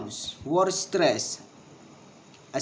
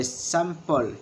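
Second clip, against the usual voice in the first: "sample" with the weight on SAM; stress on first syllable. Shown as a demonstration. Teacher showing where stress falls, first syllable stressed. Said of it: "stress is placed in the first syllable".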